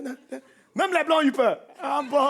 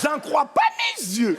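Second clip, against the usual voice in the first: mock astonished lady; 2 semitones higher, slower than usual. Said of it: "elles hallucinent tout le temps".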